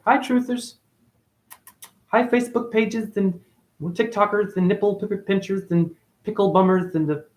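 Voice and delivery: high, teasing roll call of silly names; mock sing-song greeting. Streamer teasing his followers with silly names, high sing-song. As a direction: rattle off the names like a goofy host.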